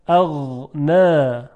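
اغن drawn out on an uncut غ; soft ghayn. Shown as a demonstration. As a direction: let the غ in اغن flow slowly. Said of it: "حالا با غین". (تلفظ اغن با غین نرم و کشیده)

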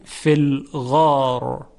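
slow فی الغار, long vowel, heavy final R. Shown as a demonstration. Teacher showing tafkhim after long ā, heavy R in فی الغار. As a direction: stretch the ā of الغار into a thick R.

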